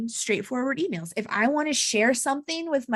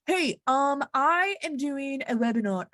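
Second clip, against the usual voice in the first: a slightly higher, stiff, scripted phone voice; stiff formal voice; 3 semitones higher than usual. Pretend. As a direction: talk like you're reading a corporate script. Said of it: "Why am I talking like that?".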